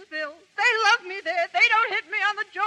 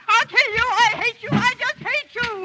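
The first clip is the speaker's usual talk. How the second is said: raised, furious voice; angry threats; 4 semitones higher, 3 dB louder than usual. Acted. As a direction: spit out the threats. She rages at him.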